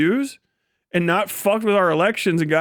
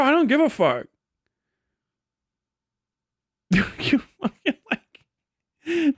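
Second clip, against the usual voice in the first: higher, laughing brush-off; higher giggling shrug-off; laughing dismissal; 6 semitones higher, slower than usual. Real, not acted. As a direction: laugh it off, not caring.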